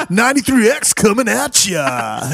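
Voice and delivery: a hint of hyped radio host; laughing radio station call-out. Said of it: "radio D J voice".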